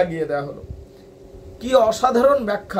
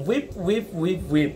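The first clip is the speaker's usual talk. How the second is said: put-on child sweep's cry; 4 semitones lower, 5 dB quieter than usual. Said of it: "আমি তখন বলতাম".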